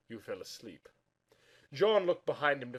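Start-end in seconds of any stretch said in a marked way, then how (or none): 0.1-0.9 murmur. Acted. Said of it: "Sherlock murmured".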